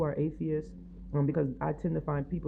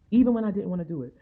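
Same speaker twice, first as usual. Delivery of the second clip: louder, faster, punched repeat; preaching it louder a second time; emphatic; 3 semitones higher, 6 dB louder, faster than usual. Real, not acted. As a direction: drive the point home hard.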